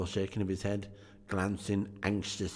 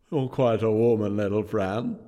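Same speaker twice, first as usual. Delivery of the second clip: put-on mild exclaiming boy; 7 dB louder than usual. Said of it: "exclaimed the boy".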